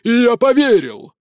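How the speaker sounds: loud, rising to a near howl; almost howling. A narrator's reading. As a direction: build until it breaks into a wail. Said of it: "чуть ли не взвыл принц".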